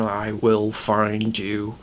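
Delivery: lightly imitated eerie ghost, slow and drawn out; a hint of scary ghost, words stretched slowly. Ghost repeating its line over and over, lightly eerie. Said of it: "very scary and in this eerie voice".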